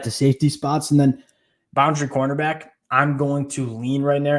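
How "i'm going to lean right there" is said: "lean" leaned on, slow and stretched; slow down and hit the word "lean"; stress on lean. Real, not acted. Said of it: "an emphasis on the word lean".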